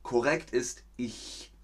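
ich with a soft ch, tongue against the palate; soft ch in ich, like a cat hissing; correct ich. Shown as a demonstration. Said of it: "Aber richtig". (ich mit weichem ch, Zunge am Gaumen)

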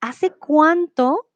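hace cuánto drawn out slow with stress on cuánto; stressed slowly. Shown as a demonstration.

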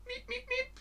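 very high, soft squeaked beeps; high tiny imitated beeping; squeaky beeps. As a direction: peep like a little alarm. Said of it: "imitating a gas sound".

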